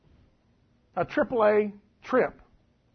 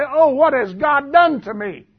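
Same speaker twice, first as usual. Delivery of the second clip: loud, high, drawn-out mock lament; mock dismay; 7 semitones higher, 9 dB louder than usual. Preacher acting out someone finding money, mock dismay. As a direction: wail it slowly in mock dismay. Mocks what nobody would say.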